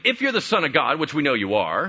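tempting Satan. Retold or imitated. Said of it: "the Satan comes up to him and starts tempting him".

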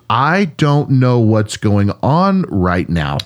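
slow, measured disbelief; stunned preacher. Retold or imitated. Retelling the preacher whose voice suddenly returned, slow stunned amazement. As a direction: halt and say it slowly, stunned. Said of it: "he stops, he goes".

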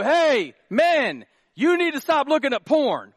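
high, loud scolding preacher; mock-scold the men from the pulpit; preacher scolding the congregation, loud and high; condemning preacher. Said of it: "that condemning statement".

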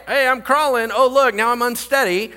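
high, excited mock-baby commentary; voiced toddler. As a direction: play a baby discovering how to move. Voices a baby learning to walk.

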